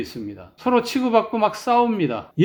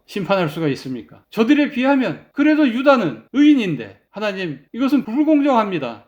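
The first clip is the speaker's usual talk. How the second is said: mild protest. Retold or imitated. Habakkuk protesting to God, mildly heated plea. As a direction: plead the case, a little heated at the end. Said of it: "그렇게 항의를 했습니다".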